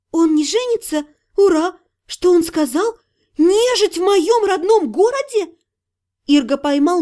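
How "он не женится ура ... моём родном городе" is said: relieved then shocked. Acted.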